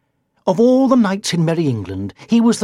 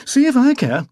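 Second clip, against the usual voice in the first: higher, sulky dare; defiant; 10 semitones higher, 4 dB louder than usual. A narrator's reading. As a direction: say it like you don't care. Knight defies the witch.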